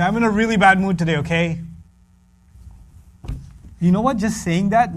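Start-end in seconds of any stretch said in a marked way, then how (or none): 0.0-1.6 quick blunt mood report; fast announcement. Retold or imitated. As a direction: rush it out. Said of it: "I can walk into the house and say".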